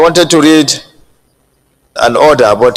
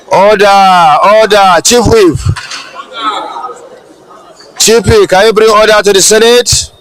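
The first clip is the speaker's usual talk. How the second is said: raised voice calling for order; shouting order order; 4 semitones higher than usual. Real, not acted. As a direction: call the chamber to order. Chair calls rowdy Senate to order.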